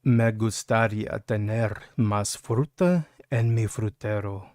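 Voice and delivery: slow, soft seductive Spanish; coaxing Spanish murmur; sexy Spanish. Shown as a demonstration. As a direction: lay it on slow like a pickup line. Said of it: "Are we ready for this one?".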